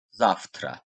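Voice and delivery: "zavtra" said as "ZAF-tra"; V read as F. Shown as a demonstration. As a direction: put an F sound before the T in "zavtra". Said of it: "F harfiyle".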